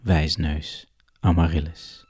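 a touch of sing-song blame, dropping at the end; adult addressing child. Acted. Adult blaming Amaryllis for lost Iris, lightly acted adult to child. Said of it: "dat het een volwassene is, die zegt".

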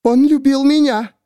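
high, tearful woman's voice; a distraught woman pleading; Miriam voiced. A narrator's reading. Miriam to the narrator, high and tearful.

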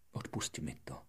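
whispered apology. Acted. Flower apologizes to prince.

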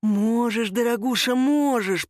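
sneering hiss of a thug. A narrator's reading. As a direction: hiss it with a nasty smile. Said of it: "прошипел долговязый". (долговязый шипит на секретаршу)

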